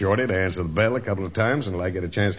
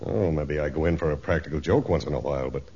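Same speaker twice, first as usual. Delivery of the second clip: earnest denial, settling lower; honest; 3 semitones lower than usual. Acted. Accused joker denies harming the steward, honestly. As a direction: protest sincerely, easing down. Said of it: "You speak with a tone of honesty".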